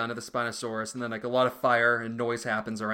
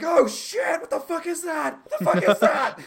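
much higher, shrieking startled creature; panicked raptor; 6 dB louder than usual. Retold or imitated. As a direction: yelp like a spooked raptor. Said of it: "The raptor's like".

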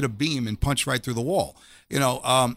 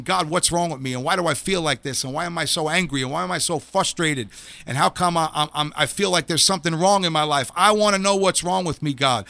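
yelling at God; 2 semitones higher than usual. Retold or imitated. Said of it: "I started to yell".

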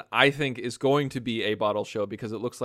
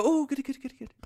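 gleeful; 13 semitones higher, much faster than usual. Retold or imitated. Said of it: "I go".

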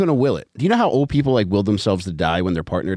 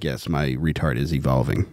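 lower, slow mock comedian voice; a lightly voiced, lowered impression of the proud comic; imitating the comedian; 6 semitones lower, 4 dB quieter than usual. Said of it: "and he's like, he's like".

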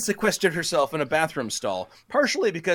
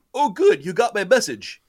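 eager nerd greeting; 5 semitones higher, 4 dB louder than usual. Acted. Darby greeting Van Shrimpy.

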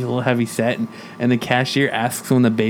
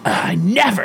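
offended, higher-pitched huff; mock outrage, pitched up; pissed off; 5 semitones higher than usual. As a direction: imitate an indignant woman. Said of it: "and she got pissed".

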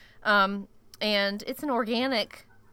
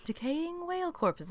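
stifled giggle; 9 semitones higher, 6 dB quieter than usual. Real, not acted. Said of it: "I like the way you say that".

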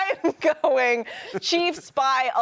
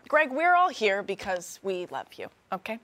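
intervention voice; 4 dB quieter than usual. Pretend.

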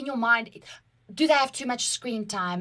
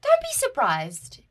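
a touch of mock self-scolding; inner scolding voice; 4 dB louder than usual. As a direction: tease yourself like a knowing aunt. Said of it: "I'm just like".

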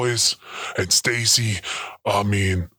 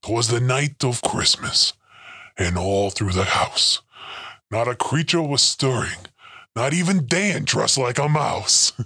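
story reading. Acted. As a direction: read it like a bedtime poem. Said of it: "writing a little Christmas story".

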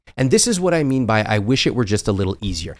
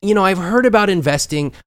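playing naive; 5 semitones higher than usual. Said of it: "I pretended to not know anything about money".

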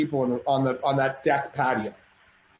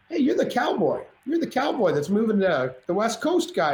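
starstruck; 4 semitones higher than usual. Retold or imitated. Starstruck recognition.

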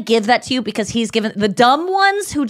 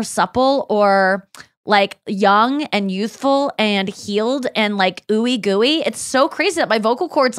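mock amazed manifesting. Shown as a demonstration. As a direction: play it like you can't believe your luck. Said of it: "talking like that".

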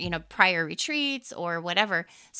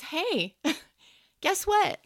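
excited husband; 10 semitones higher, slower than usual. Retold or imitated. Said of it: "he goes".

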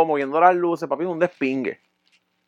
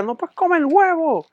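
high, slow, put-on scolding woman; bossy girlfriend voice; 13 semitones higher, slower than usual. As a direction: nag like his ex. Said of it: "ella me decía". (voz aguda y lenta de la novia mandona)

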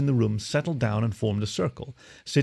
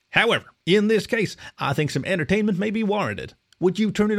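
high, courteous feline captain; a small cat captain asking politely; 9 semitones higher than usual. A narrator's reading. A cat captain asks a puppy to switch on the projector, high and courteous.

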